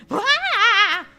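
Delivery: high, loud startled yelp; startled cry. Acted. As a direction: cry out at the sight. Shock at immense creature.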